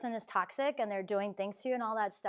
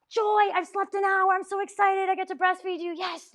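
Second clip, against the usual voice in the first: much higher, louder fake-chirpy delight; sarcastic mock cheer; 9 semitones higher, 6 dB louder than usual. Imitating a sleep-deprived new mother faking delight at a 2am feed, sarcastic high cheer. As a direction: gush like a sleepless mother pretending to love it.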